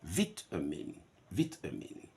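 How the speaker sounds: "vitamin" with a short vit like in bit; British vitamin. Shown as a demonstration. Teacher giving the RP form to students. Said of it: "R P".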